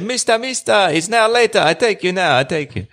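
high eager voice calling "mister, mister"; a keen young tout calling up to a tourist; eager calling local. Retold or imitated. Donkey cart driver calls up to the tourist, high and eager.

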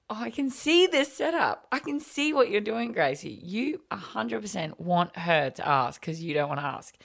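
knowing mock aside. Mum's knowing inner retort.

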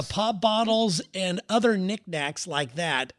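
slow, drawn-out Ohio "pop bottles"; Ohio accent. Retold or imitated. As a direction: lean into the Midwest "pop". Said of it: "She's saying pop".

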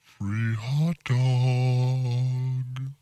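very slow, sly bait offer; creepy luring voice. Pretend. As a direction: coax them in, slow and sly.

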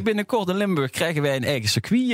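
put-on light Limburg dialect accent. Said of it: "in de onvervalste taal van zijn moeder".

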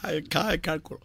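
soft unvoiced whisper. Real, not acted. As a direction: whisper it aside. Teasing aside to co-host.

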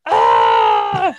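low, loud mock scream. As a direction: bark out a loud fake scream. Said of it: "the head goes".

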